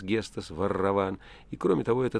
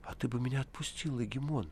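sudden plea; 4 semitones higher, 6 dB quieter than usual. A narrator's reading. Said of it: "неожиданно попросил арестант".

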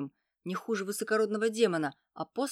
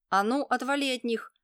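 put-on higher, louder boyish yell; shouting; 6 semitones higher, 6 dB louder than usual. A narrator's reading. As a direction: burst in shouting. Boy bursts out with a stick. (мальчик выскакивает из кустов с криком)

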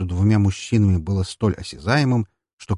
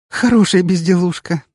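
choking with laughter; 10 semitones higher, 6 dB louder than usual. Acted. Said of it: "давясь от смеха".

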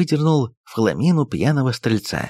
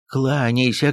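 urging command; 4 semitones higher, slower than usual. Acted. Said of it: "кинулся на него приказчик".

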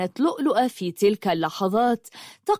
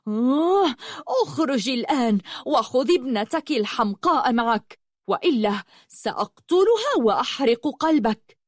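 higher, through gritted teeth; angry snarl; 4 semitones higher than usual. Acted. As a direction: snarl the threat. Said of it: "زمجرت ياقوت غاضبة وقالت وهي تكز على أسنانها".

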